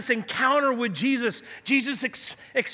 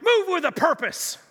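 mild mock army yell, pitched up; imitated sergeant's yell; 5 semitones higher than usual. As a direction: call it like a sergeant major ordering soldiers. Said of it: "he'd yell at him like".

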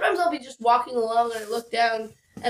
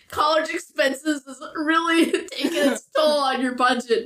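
laughing; 3 semitones higher than usual. Real, not acted. Laughing mid-sentence.

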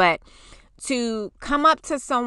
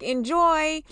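much higher, airy enjoy; sweet send-off; 8 semitones higher than usual. Retold or imitated. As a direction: wish them well lightly. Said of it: "and I was like".

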